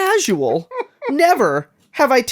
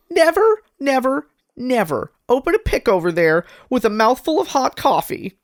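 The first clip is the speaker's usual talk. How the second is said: nerdy voice; 6 semitones higher than usual. Retold or imitated. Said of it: "a nerdy voice".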